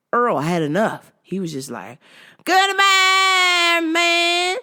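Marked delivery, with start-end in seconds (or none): 2.4-4.6 put-on high, loud bickering old man; husband voice. Earl scolding Maggie over vitamins, raised bickering. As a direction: scold your wife.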